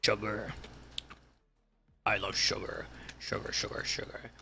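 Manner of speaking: whispering. Real, not acted. Muttering to self about sugar.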